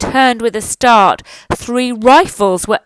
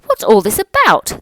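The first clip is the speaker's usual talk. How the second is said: crowd shouting; 6 dB louder than usual. Acted. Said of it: "the people came shouting".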